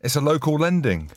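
clumsy podcast sponsor read; bad ad read. Real, not acted. Host reading the new sponsor's copy aloud, bad ad read. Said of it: "That was the worst reading I've ever heard".

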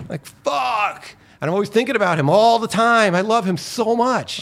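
emotional. Real, not acted. Speaker overcome remembering his grandfather.

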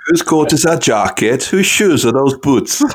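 loud. Pretend. Jokey shouted quote.

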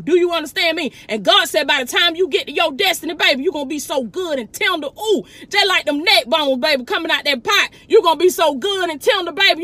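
fervent preaching with rising calls. Acted. Preacher to her online followers, fervent preaching. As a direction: preach it like a Sunday sermon. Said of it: "I'm preaching, baby".

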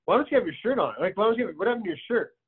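imitating a baffled kid questioning dad; retold bewildered questioning. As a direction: ask it in disbelief, pitch jumping up. Retells questioning shirtless dad.

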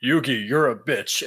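a hint of a dismissive rival; mock Yami retort. Host voicing Yami snapping at Yugi, lightly voiced retort. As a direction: toss it off with contempt. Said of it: "And he's like".

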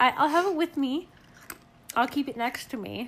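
talking around a piece of ice; words muffled by ice in mouth. Real, not acted. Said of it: "I just put a piece of ice in my mouth".

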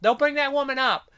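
high, loud imitation of a nun snapping; mock snapping nun. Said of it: "the nun kinda snaps for a second".

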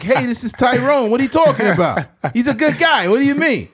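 high, loud mobster voice defending his friend; hammed-up wiseguy, loud and high; mock Italian mobster. Mobster vouching for his friend, loud and high.

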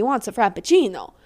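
frappuccino with a hint of an Italian lilt; accidental Italian accent. Real, not acted. Ranting about guys at Starbucks, accidental Italian accent. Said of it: "Why did I say that in an Italian accent".

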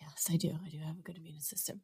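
hushed whisper. Real, not acted. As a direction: breathe it in a whisper. Confiding brag after "immunity of steel.

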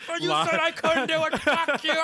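mock telling off old doubters; pretend furious yell. Imagined creators cursing doubters.

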